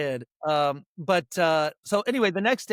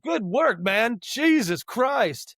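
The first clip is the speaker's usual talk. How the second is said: shaken relief; 5 semitones higher, much slower than usual. Retold or imitated. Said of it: "so he's like".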